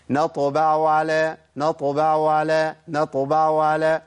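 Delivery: "نطبع على" والعين باهتة لا تكاد تبين; faded ain. Shown as a demonstration. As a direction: let the ain of نطبع fade out. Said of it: "العين بهتت خالص". (عين باهتة ساقطة)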